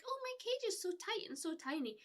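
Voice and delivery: a hint of a simpering viewer; mocking a creepy viewer. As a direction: send up a pervy chat message. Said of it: "somebody was like".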